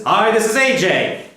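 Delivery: model sentence. Shown as a demonstration. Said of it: "I'll say the one sentence".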